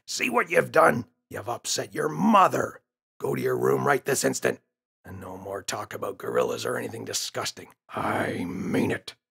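a lightly voiced father scolding his son; a hint of a cross dad sending the boy to his room; stern father.

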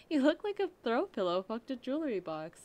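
loud, high mocking insult; loud roast. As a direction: bellow the insult at him. Crude roast of a costume.

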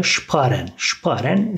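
"sparen" said SHPAA-ren; careful German "sparen", shp at the start. Shown as a demonstration. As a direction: open "sparen" with sh, long a. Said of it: "S harfini biz Ş şeklinde".

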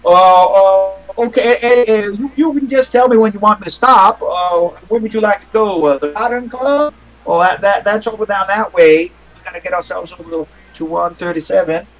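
lightly voiced fretful taxi driver; a hint of a flustered old cabbie; nervous cab driver. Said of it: "this older black man who's driving a taxi".

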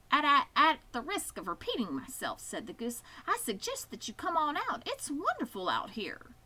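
a chatty goose tripping over herself; stammering goose. Acted. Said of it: "who talked rather fast".

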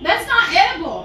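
high laughing protest. Real, not acted. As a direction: laugh through the disgust. Disgusting drink tasted, laughing.

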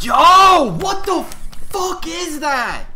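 hyped gamer bro. Real, not acted. Shocked at enemy.

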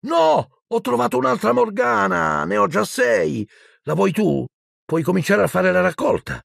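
put-on very high-pitched, whiny young voice; dismayed boy. Boy finds a duplicate card and offers it, high-pitched dismay. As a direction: pitch it way up, exclaiming over another duplicate.

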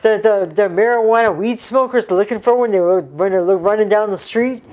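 imitating dad. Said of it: "he goes".

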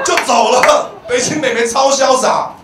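ordinary talk

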